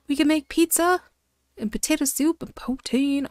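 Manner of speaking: high, thrilled exclamation after a gasp; real excitement over pizza; excited. Real, not acted. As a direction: burst out with delight. Discovers pizza recipe.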